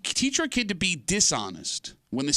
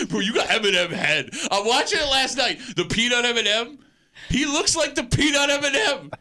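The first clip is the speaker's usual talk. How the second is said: mocking voice; 7 semitones higher, 3 dB louder than usual. Mocking co-host in silly voice.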